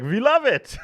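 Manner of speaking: high, loud mock-delighted publisher; Swedish publishers. Swedish publishers answering the author about his title, high mock delight. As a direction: pitch it way up as gushing publishers. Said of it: "the Swedish publishing company were like".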